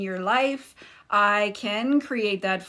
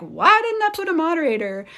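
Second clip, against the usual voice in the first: quick, raised, louder self-quote; mock self-reproach; 8 semitones higher, 7 dB louder, faster than usual. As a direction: imitate yourself exclaiming over your own slip. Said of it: "I end up being like".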